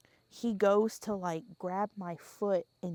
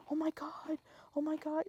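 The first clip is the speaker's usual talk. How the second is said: breathless whisper of disbelief; whispered shock; 6 semitones higher, 7 dB quieter than usual. Retold or imitated. Father whispering in shock at the scene. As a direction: gasp it under your breath.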